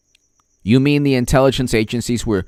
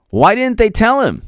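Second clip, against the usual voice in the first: incredulous; 10 semitones higher, 3 dB louder than usual. Real, not acted. Repeats question incredulous.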